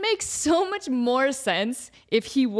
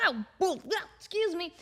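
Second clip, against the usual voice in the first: a lightly voiced meek intern, much softer; timid intern; 6 semitones higher, 6 dB quieter than usual. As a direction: murmur apologies while ducking.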